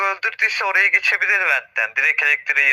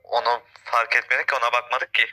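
cave echo; 4 semitones lower than usual. Real, not acted. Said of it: "ses yankı yapıyor abi".

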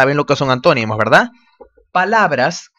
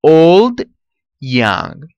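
put-on old and young stretched slowly and louder; slow presentation; 4 dB louder, much slower than usual. Shown as a demonstration.

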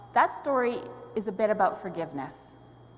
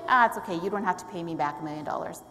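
quick, lower, breezy let-off; casual forgiveness; 5 semitones lower, faster than usual. Pretend. Master letting a servant off his debt, mock casual. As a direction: wave it away lightly, as if pretending it's nothing. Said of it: "Can you imagine saying".

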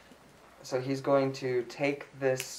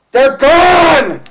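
high, full-force scream; 17 dB louder than usual. Acted. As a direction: scream it out as loud as you can. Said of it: "he's screaming".

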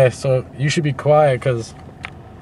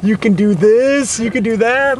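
higher, slow mock police spiel; cop's spiel; 8 semitones higher, slower than usual. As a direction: rattle off the cop's routine, slowly. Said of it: "He didn't even give you the spiel".

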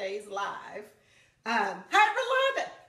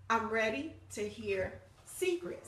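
slow announcement; 5 dB quieter, slower than usual. Retold or imitated. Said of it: "and I said".

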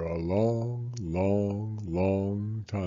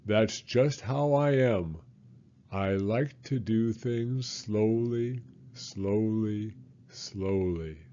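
sleepy sloth; 2 semitones higher than usual. Acted. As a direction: drift off as the sloth says it. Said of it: "and said".

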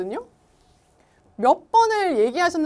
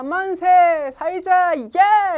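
excited cheer; 6 semitones higher, 8 dB louder, much slower than usual. Shown as a demonstration. Cheering translation of the phrase.

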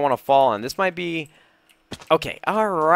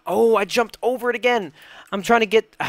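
frustrated exclamation; 8 semitones higher than usual. Real, not acted. Overshoots the block again.

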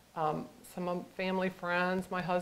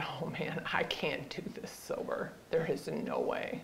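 soft, subdued self-talk; hushed retold admission; retold despair; 7 dB quieter than usual. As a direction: say it under the breath, defeated. Quotes own dread of coping.

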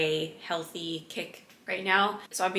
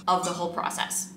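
ordinary talk, nothing marked

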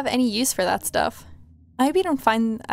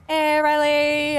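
calling out; 4 semitones higher, slower than usual. Real, not acted. Calling out to Riley again.

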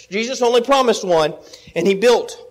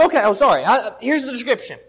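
laughing at a slip. Real, not acted. Preacher laughs at own slip.

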